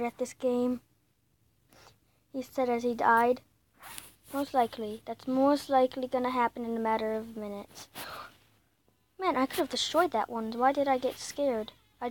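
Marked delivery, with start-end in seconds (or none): 4.3-7.9 hushed aside. Pretend. Aside after mock boast.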